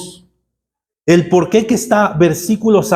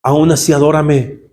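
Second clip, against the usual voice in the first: lower, calm insistence; gentle voice of God; 4 semitones lower than usual. Retold or imitated. God urging the grieving father, lower and calm. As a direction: insist patiently from below. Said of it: "Y el Señor me decía".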